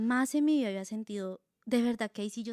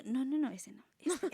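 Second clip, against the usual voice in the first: fussy refusal; 3 semitones higher than usual. Retold or imitated. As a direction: brush off verse after verse, half laughing. Flipping Bible rejecting verses.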